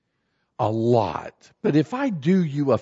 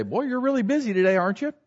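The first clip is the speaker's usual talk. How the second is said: quick, higher-pitched attempt at chitchat; friendly small talk; 8 semitones higher, much faster than usual. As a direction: try making friendly conversation, pitched up. Second friendly attempt with clerk.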